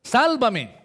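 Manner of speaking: high, loud desperate cry; Peter's cry for help. Retold or imitated. Preacher voicing Peter sinking in the sea, desperate loud cry. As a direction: cry out like a man going under. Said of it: "¿Qué gritó Pedro?".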